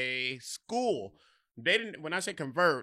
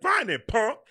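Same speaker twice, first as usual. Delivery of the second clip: higher, louder mock tough-kid voice; bully taunt; 9 semitones higher, 10 dB louder, slower than usual. Michael answering before he pushed, mock taunt. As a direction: sneer it like a playground bully. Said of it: "he's like".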